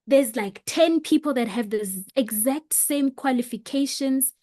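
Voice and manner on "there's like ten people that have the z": normal talking voice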